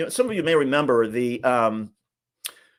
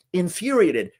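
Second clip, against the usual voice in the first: infuriated said higher and pushed harder; rising emphasis; 6 semitones higher, slower than usual. Real, not acted. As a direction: lift infuriated up, insistent. Repeats word for emphasis.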